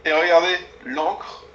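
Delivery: excited. Real, not acted. Showing off the inkwell excitedly.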